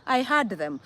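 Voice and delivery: "heard" with no R, like "had"; Kenyan pronunciation. Shown as a demonstration. Repeating the Kenyan way, "heard" as "had". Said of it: "That is our Kenyan language".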